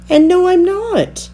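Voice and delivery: put-on a tiny girl standing her ground; little Nell insisting. A narrator's reading.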